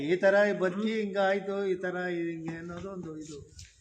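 real tearful explanation, fading away; tearful, searching for the words; crying. Real, not acted. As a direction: talk through tears, letting it trail off. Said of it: "ಯಾಕೆ ಅಳ್ತಿದ್ದೀರಾ?".

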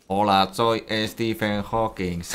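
slow robotic voice modulator; synthetic speech-device voice; voice changer. Pretend. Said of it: "con el modulador de voz".

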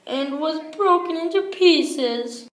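high little bear cub; Baby Bear's wee little voice. Acted. Baby Bear finds his chair broken, wee little voice. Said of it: "in his wee little voice".

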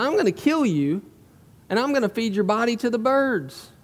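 taunting. Acted. Preacher as Goliath threatening young David, taunting. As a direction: raise the pitch and taunt with the threat. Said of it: "Goliath begins to taunt him".

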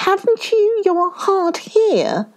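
high-pitched, astonished question. A narrator's reading. Shark asks monkey about his missing heart, astonished. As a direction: voice leaps up in disbelief.

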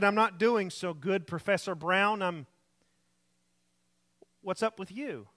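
lightly voiced weak, trembling patient; a hint of a sick young man's tremble. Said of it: "in a weak, trembling voice".

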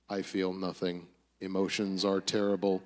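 lightly voiced low, droning robot; a hint of low robotic monotone; drony robot. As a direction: drone it out low like an unfeeling robot. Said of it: "these just drony robots".

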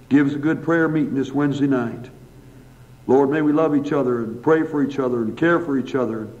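earnest, even-pitched pastoral prayer; public prayer. Real, not acted. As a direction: address God in steady phrases with pauses between petitions. Let's bow for a word of prayer.

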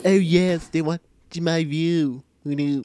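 loud, drawn-out cartoon voice; Stewie Griffin. Gamer gloating over spectators, put-on cartoon voice. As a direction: open big, then stretch it slowly. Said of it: "enough with the Stewie impression for once".

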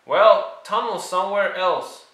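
high, loud, quick retort. Acted. George snapping at Rashida, high and loud. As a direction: snap it back fast.

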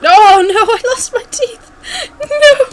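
very high, loud mock wail; hammed-up squeaky despair, starting loud. Player bemoans lost teeth in the game, mock wail.

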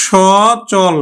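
সচল with open aw; teacher models সচল; pronunciation demo. Shown as a demonstration. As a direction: say সচল as shaw-chol. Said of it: "উচ্চারণ করব কিন্তু".

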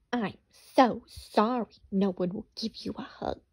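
mock sympathy, sly fox; lightly voiced sly fox drawling. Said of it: "drawled Fox".

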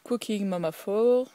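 French-accented English, slowly pronounced; poor English accent. Real, not acted. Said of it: "même si j'ai un accent vraiment". (anglais lent à l'accent français)

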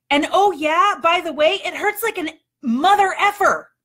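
whining refusal. Retold or imitated. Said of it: "my response was".

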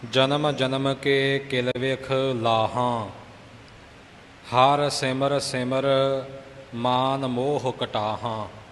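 slow recital with nasal endings on ਲਾਹਾਂ and ਕਟਾਹਾਂ; nasalised endings shown. Shown as a demonstration. Teacher showing where the bindi is pronounced, nasal ਲਾਹਾਂ and ਕਟਾਹਾਂ. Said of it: "ਹਾਹੇ ਦੇ ਕੰਨੇ ਨਾਲ ਬਿੰਦੀਆਂ ਵੀ ਆਈਆਂ ਹਨ".

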